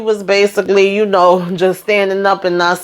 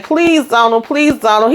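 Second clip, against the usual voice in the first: high-pitched whining plea; mock desperate begging; 6 semitones higher than usual. Lily on her knees reaching for the pill, mock desperate begging. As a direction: imitate a desperate, pained beggar.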